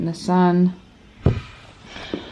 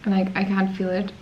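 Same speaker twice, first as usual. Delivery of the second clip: speaking weird with sore mouth; speaking weird after surgery. Real, not acted. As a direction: talk carefully around fresh tooth holes. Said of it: "The only thing is that I'm speaking weird".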